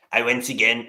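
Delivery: another try at Bernie that still comes out like Trump; failed Bernie retry. Retold or imitated. Retrying the Bernie line for viewers: slips into Trump. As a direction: restart the plea in a half-hearted Bernie voice. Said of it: "no, no, that's just still Donald Trump".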